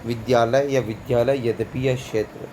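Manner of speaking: विद्यालय and यद्यपि with a clear y after d; क्षेत्र begun with "ksh", विद्यालय with "dyaa"; correct reading. Shown as a demonstration. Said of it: "वापस शुद्ध".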